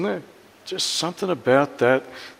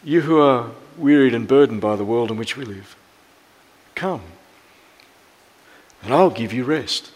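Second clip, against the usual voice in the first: tender invitation; 2 semitones lower than usual. Pretend. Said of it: "It starts with".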